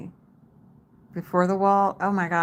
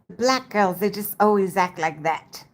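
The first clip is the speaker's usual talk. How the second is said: lightly imitated British friend, slightly raised pitch; hint of mock-British; British accent; 3 semitones higher, 3 dB louder than usual. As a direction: quote him with a touch of British accent. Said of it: "he has a British accent".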